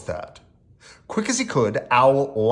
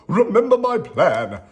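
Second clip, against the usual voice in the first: raised, louder rallying call; shout; 6 semitones higher, 6 dB louder than usual. A narrator's reading. Owl rallies friends to hide, raised shout. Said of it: "shouted Owl".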